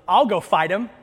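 lightly voiced squeaky youngster; squeaky boy. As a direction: pipe up as an eager young lad. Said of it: "he, he squeaks".

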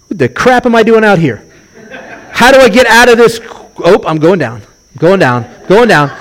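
high-pitched mock alarm, dropping as they sink; hammed-up freak-out on the water; comic panic. Preacher playing a panicked walker on the waves, comic alarm. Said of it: "look around and go".

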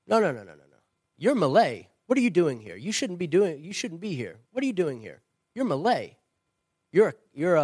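put-on an elderly church elder berating a Malay newcomer, loud and high; indignant old man. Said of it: "he says".

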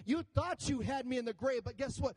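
risen Jesus taunting the grave; Jesus defiant. Acted. Jesus voiced rising from grave.

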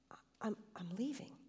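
faint whispered leaving, halting on I'm; weak voice. Acted. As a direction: barely breathe the words out. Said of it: "in a weak voice".

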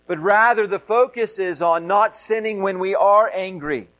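usual speaking voice

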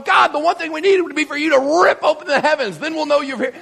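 high, fervent cry to God; pleading prophet. Acted. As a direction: plead for heaven to open. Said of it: "You got the prophet going".

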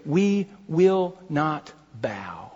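very slow, word by word; solemn resolve. Acted. Believers refusing the false prophet, solemnly resolute. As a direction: weigh each word in quiet, measured resolve.

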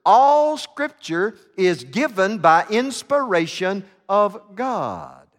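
slow, solemn scripture reading. Shown as a demonstration. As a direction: read the verse slowly, solemnly. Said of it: "I'll just dwell on the first few words".

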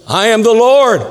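lightly acted voice from above; voice of God. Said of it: "The voice said".

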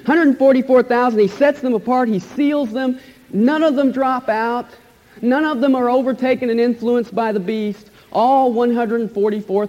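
excited. Real, not acted. Preacher thrilled at the sealed hundred forty-four thousand, excited. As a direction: let the joy lift every number. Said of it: "That's exciting to me".

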